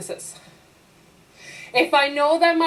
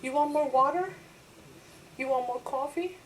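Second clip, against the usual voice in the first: eager server; 8 dB quieter than usual. Retold or imitated. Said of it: "Serve you".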